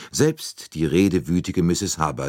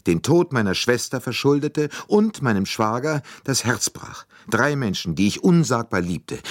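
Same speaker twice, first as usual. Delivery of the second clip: passionate agitation; 7 semitones higher than usual. A narrator's reading. Countess explaining her motive to Poirot, passionate. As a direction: pour out grief and fury for her lost family. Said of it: "Ihre Stimme bebte vor leidenschaftlicher Erregung".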